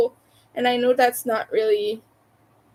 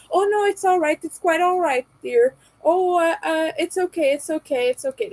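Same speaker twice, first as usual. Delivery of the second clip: mock comforting; 5 semitones higher than usual. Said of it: "comfort you about".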